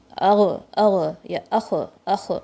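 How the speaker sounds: اغ and اخ with a jolt and bounce; slow, jerky ugh and ukh; bounced ghain and kha. Shown as a demonstration. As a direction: show the wrong qalqala. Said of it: "یہ نہیں ہونا چاہیے".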